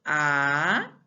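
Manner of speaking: "Análises" as four long, drawn-out syllables; separated into syllables. Shown as a demonstration. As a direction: stretch and separate each syllable of "Análises", pausing between. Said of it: "separando elas em sílabas, vamos lá".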